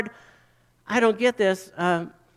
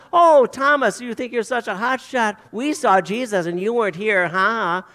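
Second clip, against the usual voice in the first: mocking taunt; 3 dB louder than usual. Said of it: "Do you see Thomas".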